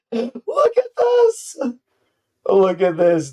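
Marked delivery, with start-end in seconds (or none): 0.1-1.6 much higher, slow, drawn-out amazement; stunned excitement. Real, not acted. Reacting to the board wipe, higher and drawn-out in amazement. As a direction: gasp it out at the wiped board.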